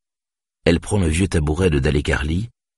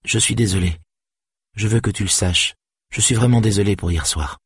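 a lightly voiced young woman, pleading and sorry; Saga apologising; 4 semitones higher than usual. Saga begs Stéphane's forgiveness, lightly voiced and contrite.

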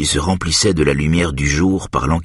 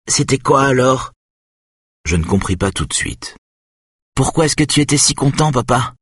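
put-on higher, insistent little boy; a small child pestering his father; curious young boy; 9 semitones higher than usual. A narrator's reading. Son tugging at his father's trousers, curious child voice.

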